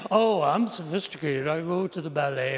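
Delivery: mock-cultured putdown, lightly put on; pretend sophistication. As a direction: pose as a ballet snob. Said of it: "you're gonna pretend".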